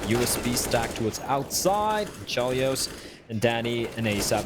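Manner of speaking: live esports play-by-play; lively match commentary. Acted.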